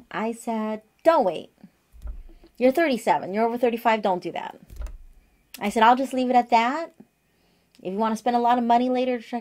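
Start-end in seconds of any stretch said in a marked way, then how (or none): 1.0-4.6 urgent retold advice. Urging friend not to delay. 5.8-9.4 emphatic retold advice. Urging friend, retold advice.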